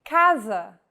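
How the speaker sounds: casa with a hard K sound, KAH-zah; Portuguese casa, hard C. Shown as a demonstration. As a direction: start casa with a clean K. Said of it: "the letter C sounds like this".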